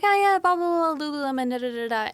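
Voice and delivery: high start tumbling down through filler; retold chatter. Retelling a chat about Lululemon, breezy mock chatter. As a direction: rattle off your own rambling, imitating it.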